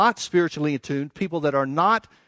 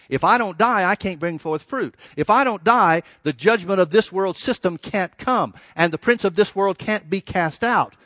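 louder, higher, driving insistence; emphatic preaching build; 4 semitones higher, 4 dB louder than usual. Retold or imitated. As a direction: punch each condition, slowing toward the consequence. Preacher builds the if-not argument.

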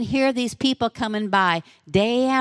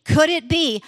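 excited wondering; 5 semitones higher than usual. Acted. Blind man's excited inner thoughts.

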